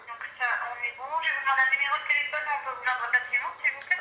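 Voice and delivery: tinny phone call voice; over the phone. Real, not acted. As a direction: voice through a phone line. Phone agent speaking.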